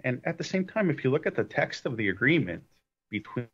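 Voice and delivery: choppy phone line cutting out; glitchy bad connection, words dropping; breaking up. Real, not acted. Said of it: "you're breaking up a little bit".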